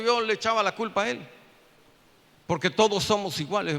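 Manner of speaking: ordinary talk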